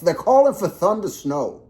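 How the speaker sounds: high, loud mock Southern drawl; slave owner drawl. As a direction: announce it like a Southern planter. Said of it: "imagine a slave owner sounding like that".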